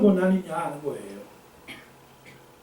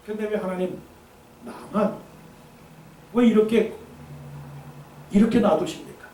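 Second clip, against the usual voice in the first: mild Elijah complaint; 4 semitones higher than usual. Acted.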